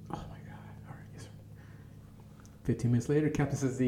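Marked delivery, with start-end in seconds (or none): 0.1-1.3 very soft, meek acknowledgement; cowed reply. Retold or imitated. New recruit answering the squad boss's ultimatum, hushed and cowed. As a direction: mumble it under your breath, cowed.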